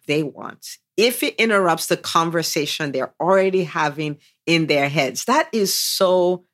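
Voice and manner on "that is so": delighted praise. Real, not acted. Host interrupts guest because the point is so good, delighted. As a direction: gush it slowly, pitch shooting up at the end.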